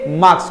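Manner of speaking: मार्क्स with no R, "maaks"; correct pronunciation. Shown as a demonstration. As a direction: leave the R silent in मार्क्स. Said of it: "आपके बाद रहे आता ही नहीं".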